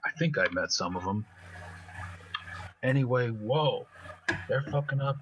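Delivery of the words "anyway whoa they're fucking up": put-on higher street-kid voice, baffled; higher-pitched amazed street swagger; Spitter amazed. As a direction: react like a puzzled street kid. Spitter reacts to drone news.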